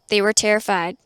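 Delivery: normal talking voice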